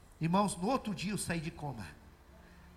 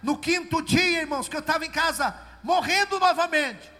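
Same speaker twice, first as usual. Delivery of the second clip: loud, higher, fervent testimony; preaching at full force; 5 semitones higher, 8 dB louder than usual. Acted. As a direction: proclaim it to the church.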